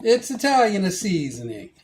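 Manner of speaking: put-on loud, hammy Italian accent. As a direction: say it like a mock Italian chef. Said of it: "I would like to apologize to all Italian Americans".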